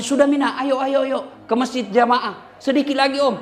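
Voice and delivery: panggilan agak keras dan tinggi; memanggil anak. Retold or imitated. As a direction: panggil anak pulang dari lapangan. Memanggil kemenakan dari lapangan. (om memanggil kemenakan yang main bola)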